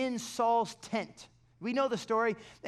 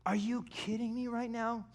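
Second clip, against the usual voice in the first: frustrated whisper; 4 dB quieter than usual. Real, not acted. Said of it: "I was frustrated at those Israelites".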